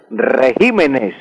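"regímenes" drawn out, stress on GÍ, re-GÍ-me-nes; slow demo. Shown as a demonstration. Radio teacher teaches the plural "regímenes", slow, stress on GÍ. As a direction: say "regímenes" very slowly, weight on GÍ. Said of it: "el plural de régimen sería".

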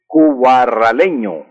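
"cubarraleño" despacio, marcando cada sílaba; slow and careful. Shown as a demonstration. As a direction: dicta "cubarraleño" con calma, sílaba por sílaba. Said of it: "Y los nacidos en Cubarral". ("cubarraleño" lento y claro, como dictado)

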